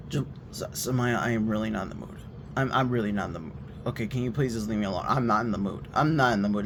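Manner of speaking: low, soft, calm pleading; about to cry. Retold or imitated. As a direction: beg quietly to be left alone, close to tears. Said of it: "I literally sound like I'm about to cry".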